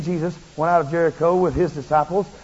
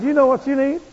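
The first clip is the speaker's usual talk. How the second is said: higher, louder, eager challenge; eager question; 9 semitones higher, 7 dB louder than usual. Retold or imitated. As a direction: hook the old man with the question. Preacher calling to blind man.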